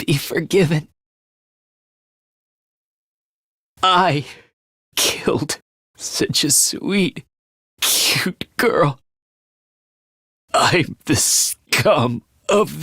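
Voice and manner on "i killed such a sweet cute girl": halting, half-whispered remorse; grief-stricken confession. Acted. Confessing to killing a sweet girl, grief-stricken. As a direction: break it up with long, breathy pauses.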